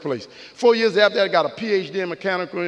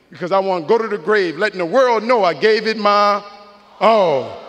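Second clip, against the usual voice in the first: emphatic build; 4 dB louder than usual. Real, not acted. Speaker driving home his closing message, emphatic build. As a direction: build to a loud, hard-hit final word. Climax of motivational graduation speech.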